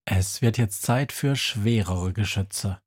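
usual speaking voice

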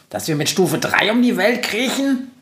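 high, incredulous question; mock disbelief; scoffing. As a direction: ridicule the idea with a climbing pitch. Günther scoffs at slow speed.

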